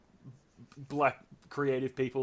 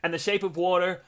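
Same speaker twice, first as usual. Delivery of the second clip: lightly voiced actress, higher and louder; Sandra Bullock impersonation; 3 semitones higher, 5 dB louder than usual. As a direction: put on a raised, slightly giggly presenter voice. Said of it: "Sandra Bullock".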